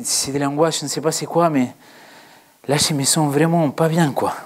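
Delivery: a preacher too frightened to go on; scared preacher. Acted. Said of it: "Cette petite sketch de trente secondes".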